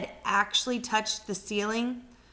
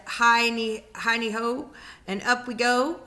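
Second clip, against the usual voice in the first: sing-song chant, a bit louder; mild mock shout; 5 dB louder than usual. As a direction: chant it like a gleeful old woman. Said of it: "she shouted".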